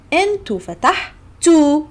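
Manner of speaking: فتحتوا with a clear final u; Egyptian Arabic demo. Shown as a demonstration. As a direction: say أنتوا فتحتوا crisply. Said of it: "We add T and O".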